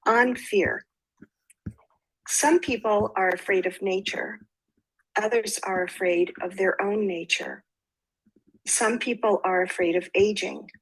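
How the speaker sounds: measured, even recital with pauses after each line; poem reading. Acted. Poet reads "On Fear" to listeners, measured recital. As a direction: read each line as verse and let it settle.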